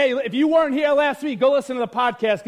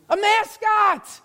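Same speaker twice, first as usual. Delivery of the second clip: exclaimed; 7 semitones higher, slower than usual. Real, not acted. Preacher exclaims the word.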